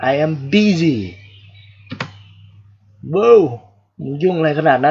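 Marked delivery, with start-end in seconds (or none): 0.1-1.0 "busy" pronounced like bizzy; short i vowel. Shown as a demonstration. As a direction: model "busy" with an i sound in the first syllable. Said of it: "ออกเสียงสระอิ". (พูด busy ด้วยเสียงสระอิ)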